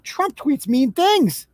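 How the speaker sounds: slow, drawn-out sarcastic complaint; mock outrage. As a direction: stretch it out like a whiny scold. Mocking Biden voters' complaints.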